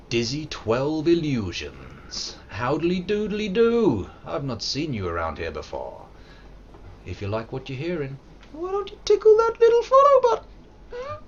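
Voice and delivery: very high, sleazy sing-song come-on; creepy high voice. Acted. Greeting a new follower in a creepy, very high voice. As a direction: tease the new viewer like a creepy flirt.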